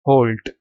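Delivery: "halt" with a rounded O, like "holt". Shown as a demonstration. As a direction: say "halt" to rhyme with "bolt". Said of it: "pronounce ऐसे करना है".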